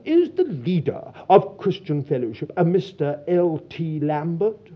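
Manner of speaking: lightly put-on posh enquiry; terribly posh. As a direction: imitate a posh English caller. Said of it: "a terribly posh voice said".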